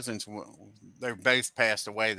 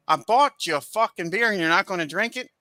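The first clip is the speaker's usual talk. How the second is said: put-on higher, indignant retelling of a drunk brother; retold outrage; 7 semitones higher, 3 dB louder than usual. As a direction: play the offended brother buying the round, half-mock. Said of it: "He says".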